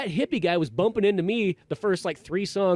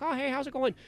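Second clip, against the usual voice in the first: friendly concert couple; 10 semitones higher than usual. Retold or imitated. Couple greeting fellow fans, friendly. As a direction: imitate a nice couple saying hello.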